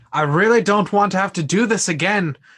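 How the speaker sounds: shouted out loud. Aiming a pistol at approaching attackers in character, warning them: yelling loudly. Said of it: "just say very loudly".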